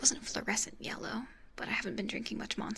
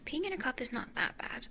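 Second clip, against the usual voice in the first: whispering. Real, not acted. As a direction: keep it all breathy and whispered. Whispers through the stream.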